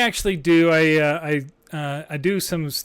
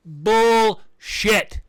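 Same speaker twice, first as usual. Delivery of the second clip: higher and louder spat out; angry curse; 5 semitones higher, 4 dB louder than usual. Real, not acted. Host swearing at the cuts, angry curse. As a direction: bite off the curse.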